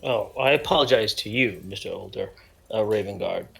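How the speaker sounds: bowing out politely; in-character apology. Acted.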